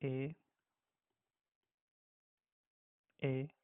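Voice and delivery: "A" as the German name of E; "A", a long ay for German E; German letter E. Shown as a demonstration. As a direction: say German E like English "A". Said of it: "we call it as".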